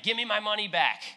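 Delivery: mock-furious servant grabbing his money; angry demand. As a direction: bark it at the man you're choking. Servant choking a debtor.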